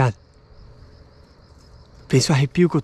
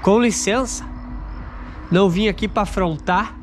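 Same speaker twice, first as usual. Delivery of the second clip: polite plea; 4 semitones higher than usual. Real, not acted. Polite address to the spirits.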